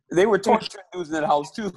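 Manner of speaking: emphatic shout. Real, not acted. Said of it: "You remember?".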